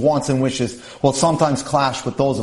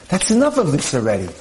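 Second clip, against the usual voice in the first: lightly voiced husband, firm and emphatic; a hint of the husband putting his foot down. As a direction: put the argument to a stop, firmly. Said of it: "in a very emphatic voice".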